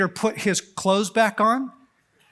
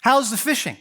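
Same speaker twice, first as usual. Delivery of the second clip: casual greeting; 5 semitones higher, 3 dB louder than usual. Retold or imitated. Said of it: "he says".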